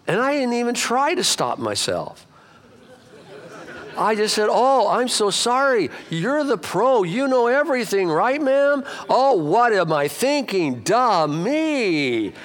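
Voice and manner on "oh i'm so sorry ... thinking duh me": drip fake apology on her; sarcastic. Pastor retelling a phone call to a snotty lady, sarcastic. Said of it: "this lady got very snotty".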